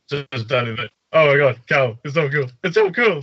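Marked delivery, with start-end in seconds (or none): 1.1-3.2 lightly voiced gushing cousin; Rebecca. Cousin Rebecca to Cal, mildly gushing. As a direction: gush a little to your cousin. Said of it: "she's saying".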